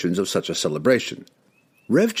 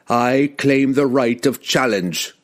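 low threatening growl; 4 semitones higher, slower than usual. Acted. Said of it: "Wulfgar growled in a low, threatening tone".

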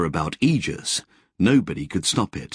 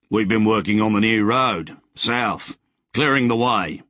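put-on cheerful old settler. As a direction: play the friendly grizzled rider greeting a stranger. Wally's voice in dialogue.

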